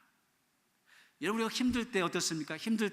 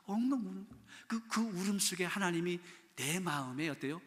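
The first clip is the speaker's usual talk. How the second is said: normal talking voice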